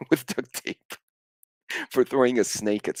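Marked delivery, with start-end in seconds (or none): 0.0-0.9 real laugh breaking into the words. Real, not acted. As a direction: crack up while telling it. Cracks up at the story.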